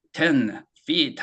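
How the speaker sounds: "Ten" and "feet" slow, each with its own beat; two separate words. Shown as a demonstration. Teacher showing two different words, "Ten feet" said slowly apart. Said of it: "two different words".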